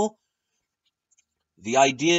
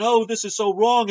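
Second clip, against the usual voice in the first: high, loud mock-panicky whine; 7 semitones higher, 4 dB louder than usual. Vlogger mocks a panicking passenger, high mock fright. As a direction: ham up the helpless passenger's fear. Mocking scared bus passengers.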